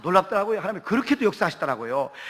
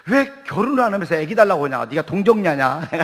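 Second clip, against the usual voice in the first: mock scolding; 3 semitones lower, 4 dB louder than usual. Mock scolding of praying woman.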